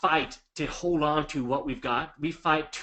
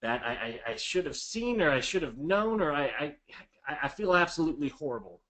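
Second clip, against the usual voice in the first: taking the blame. Shown as a demonstration. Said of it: "Take a hundred percent of the blame".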